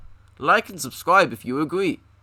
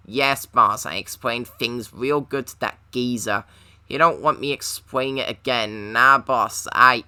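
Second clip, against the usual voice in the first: henchman voice; 4 semitones lower than usual. Acted. Henchman gangster voice.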